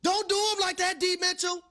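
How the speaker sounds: laughing fan yelling at the television. Retold or imitated. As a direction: holler at the player on TV. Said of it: "I said".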